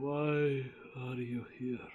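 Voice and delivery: very deep, gravel-edged, gravelly character voice. Voicing a figure the listeners hear, the speaker uses a very deep, gravelly voice. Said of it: "you all hear this very deep, gravelly voice".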